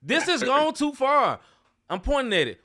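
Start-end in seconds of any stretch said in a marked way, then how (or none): 0.0-1.4 high, slow mock preacher; hammed-up sermon cry; mock preacher exclaim. Mocking the preacher's line.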